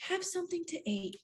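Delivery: soft soothing voice. Retold or imitated. Cousin soothing her.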